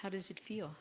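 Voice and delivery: hushed whisper, close and soft; right in your ear. Real, not acted. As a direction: whisper it gently to a resting listener. Soft question during eyes-closed relaxation.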